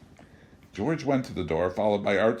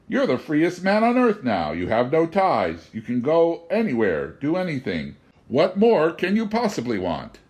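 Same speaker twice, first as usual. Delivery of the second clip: raised, wry indignation; indignant stranger; 6 semitones higher, 4 dB louder than usual. A narrator's reading. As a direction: lecture him with mock offense.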